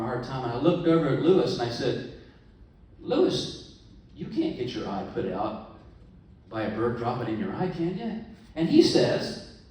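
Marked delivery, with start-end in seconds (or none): 3.0-8.2 incredulous appeal. Acted.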